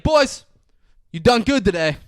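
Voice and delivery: lightly voiced proud Benny; proud captain. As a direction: praise the boys like a coach. Benny praising the team.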